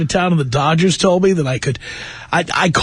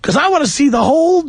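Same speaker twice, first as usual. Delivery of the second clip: higher, eager and bright-eyed; eager newcomer; 6 semitones higher than usual. Retold or imitated. Host as his younger self, excited for season tickets. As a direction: sound like a thrilled new arrival.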